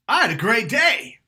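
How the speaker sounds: high, loud and eager; thrilled great day. Shown as a demonstration. Showing a great day, said thrilled and loud. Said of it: "She can't tell the difference between".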